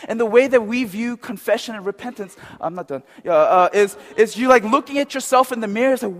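usual speaking voice

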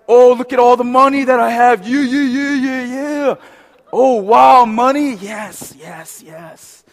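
high, loud, hammed-up gloating; money-mad tempter. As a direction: gloat theatrically, then die away. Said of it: "I'm gonna do different voices".

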